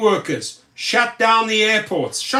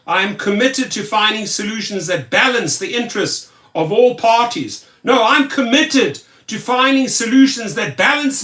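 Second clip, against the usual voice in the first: mocking the governor; 3 semitones higher than usual. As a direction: parody a smug politician's statement. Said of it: "Now he comes out and says".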